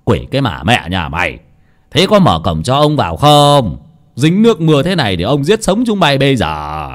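put-on gruff old man's rebuke; scolding. Old master scolding the servant girl. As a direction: snap at her to open the gate. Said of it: "Cụ Tránh nho nạt".

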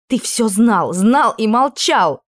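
loud, slowing at the end; hurt accusation. Acted. Princess reproaches the prince, hurt loud accusation. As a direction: drag out the last words in reproach.

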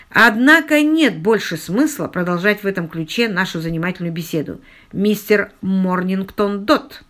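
measured, "мистер Морнингтон Дотт" slowed word by word; deliberately distinct intonation. A narrator's reading. Abershaw confronts Albert by another name, with deliberately distinct intonation. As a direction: articulate pointedly, slowing right down on "мистер Морнингтон Дотт". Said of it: "с нарочито отчётливой интонацией".

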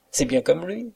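high-pitched acted laughter; laugh, then speak high and delighted; laughing cook. A narrator's reading. Cook laughing at the valet's supposed impression, high and amused. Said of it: "La rieuse cuisinière".

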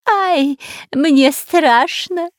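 high, slow cry of fear; frightened cry. A narrator's reading. Spy crying out at the snakes, frightened. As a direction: yelp out in terror. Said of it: "снова закричал Дырка".

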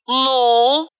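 menacing. A narrator's reading. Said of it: "грозно нависая".

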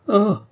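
high, loud "ah" of dismay; short acted cry of distress. A narrator's reading. Andrée hiding her head in her hands, dismayed cry. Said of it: "S'écria André".

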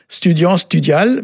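slow, syllable by syllable: Studiant, studial; slow model reading of Studiant, studial; careful Breton pronunciation. Shown as a demonstration. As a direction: spell out Studiant and studial slowly, stress on stu. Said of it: "c'est très accentué".

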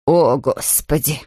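understated fright, dragged out low; frightened. A narrator's reading. Housekeeper clinging to the boat, mildly frightened. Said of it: "испуганно произнесла миссис Бёрд".

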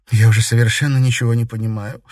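fast, loud, rushing out the words; blurting out that she is lost; agitated confession. A narrator's reading. Katerina to her father, agitated and bewildered. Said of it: "с волнением призналась она".

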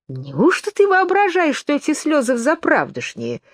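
high, scornful sneer; utter contempt. A narrator's reading. Twin scorning Alice's tears, full of contempt. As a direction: look down on her tears. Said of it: "с величайшим презрением".

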